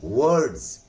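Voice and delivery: "वर्ड्स" with silent R and z ending; corrected pronunciation. Shown as a demonstration. Teacher gives students the form to use, "वर्ड्स" ending in z. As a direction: say "वर्ड्स" carefully, no R, voiced z at the end. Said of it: "आज के बाद आप पढ़ेंगे".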